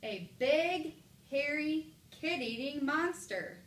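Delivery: loud, high exclamation, stretching "monster"; exclamation reading. Shown as a demonstration. Teacher shows which mark sounds best, loud high exclamation. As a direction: exclaim it big, punching "big", "hairy" and "monster". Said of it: "Exclamation point".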